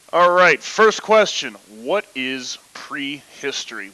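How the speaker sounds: booming sports announcer hype; football announcer voice. Pretend. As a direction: call it like a big game intro. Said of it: "do this in Nolan football announcer voice".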